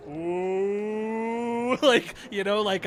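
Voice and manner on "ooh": teasing ooh. Retold or imitated. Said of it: "several decks down going".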